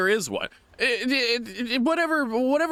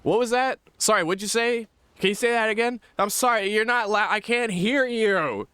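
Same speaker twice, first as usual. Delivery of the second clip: mock confused listener; 6 semitones higher than usual. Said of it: "heard the phrase".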